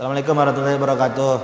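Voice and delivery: hollow, insincere, perfunctory, going through motions. Imitating how some people give the salam greeting, mock-insincere greeting. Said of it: "Orang salam nggak tulus".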